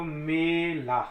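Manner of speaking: मेला said slowly, open ए. Shown as a demonstration. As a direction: stretch मेला for pupils. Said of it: "ए की आवाज़ आ रही है". (मेला धीरे, बाहर की ओर ए)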